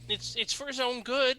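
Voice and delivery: high, stammering excuse; nervous old man; defensive father. Acted.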